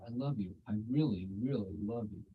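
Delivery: soft, sweet reassurance; sweetly. Retold or imitated. The girl gently declining the proposal, soft and sweet. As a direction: let her down gently and sweetly. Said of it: "Very sweetly".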